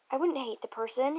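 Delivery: a half-hearted narrated yell; mild yell. Acted. Nagito insisting he wouldn't hate the person, mildly yelled. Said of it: "he yelled at you".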